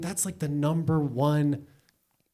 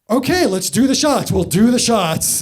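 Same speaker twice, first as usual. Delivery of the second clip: mock eager; 7 semitones higher, 7 dB louder than usual. Doctor suddenly enthusiastic.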